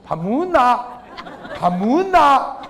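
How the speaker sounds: a hint of a blunt husband barking at his wife; gruff Gyeongsang husband. Husband asking his wife about dinner, mock gruff. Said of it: "마누라한테 밥 먹었냐고 물어볼 때".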